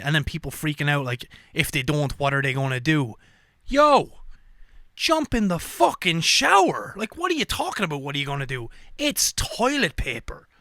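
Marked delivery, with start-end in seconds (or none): 3.7-10.5 exasperated shout. Real, not acted. Telling panicking shoppers to just shower, exasperated shout. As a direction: yell some sense into them. Scolding toilet paper panic buyers.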